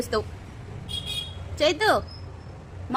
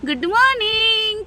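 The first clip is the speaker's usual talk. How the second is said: very slow, higher drawn-out good morning; sing-song wake-up; 6 semitones higher, 5 dB louder, much slower than usual. Real, not acted. Mother coaxing toddler awake, slow high sing-song. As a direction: draw good morning out slowly in a raised voice.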